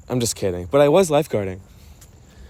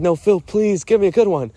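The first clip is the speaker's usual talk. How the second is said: pitched way up, pleading for a real answer; high pleading friend; 9 semitones higher, 7 dB louder than usual. Retold or imitated. Friend on the plane begging Phil for help, high and pleading. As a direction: beg Phil like the stranded friend. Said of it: "You're like".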